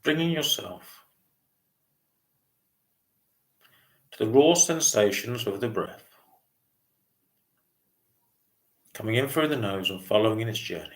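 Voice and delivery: calm meditation guide, long pauses between phrases; unhurried mindfulness voice with spacious pauses; guided meditation. Real, not acted. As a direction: gently lead a breathing meditation, leaving lots of silence. Leads a body scan meditation.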